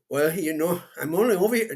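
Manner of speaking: light mock Mexican accent. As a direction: rehearse a lightly accented excuse. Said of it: "drop the accent".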